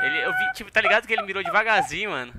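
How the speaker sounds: high, loud amazed retelling; excited. Real, not acted. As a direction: tell it high and worked up. Excited retelling of enemy shot.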